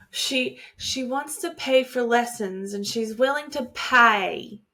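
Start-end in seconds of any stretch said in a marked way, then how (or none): 3.2-4.6 mock Cockney on "pay"; bad Cockney accent. Quoting a flower girl offering money for lessons, mock Cockney. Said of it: "it's a bad Cockney accent".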